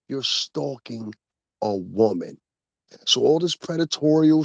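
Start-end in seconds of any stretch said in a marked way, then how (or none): 0.1-2.4 You're stalking a woman, spoken very slowly with a break before a woman; slowed right down. Shown as a demonstration. Host to stalker, deliberately slowing it down. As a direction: drag out You're stalking, then pause. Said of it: "Let me slow you down one more time".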